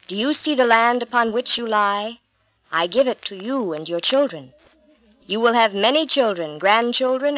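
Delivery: lightly voiced God, steady and grand; a hint of a divine voice promising the land. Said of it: "God spoke to him".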